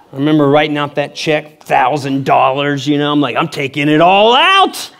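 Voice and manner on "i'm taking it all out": triumphant. Retold or imitated. Retold triumphant announcement to teller.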